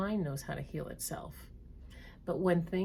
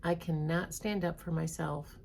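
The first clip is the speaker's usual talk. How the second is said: read slowly. Shown as a demonstration. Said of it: "I'm gonna read them slowly".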